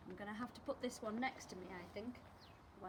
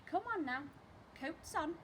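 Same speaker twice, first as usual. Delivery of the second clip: bustling mother; 6 semitones higher than usual. Acted. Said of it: "Missus Large".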